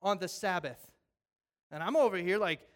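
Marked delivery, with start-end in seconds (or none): 0.0-0.9 loud, indignant challenge from the religious men; mock accusing. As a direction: call him out for walking on the Sabbath. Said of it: "these religious guys look at him and go".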